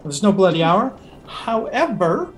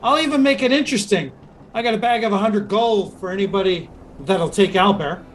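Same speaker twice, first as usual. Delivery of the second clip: GM voicing Scourge. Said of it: "looks over at Master Scourge and goes".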